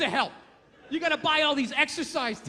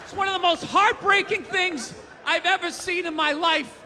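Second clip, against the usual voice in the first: normal talking voice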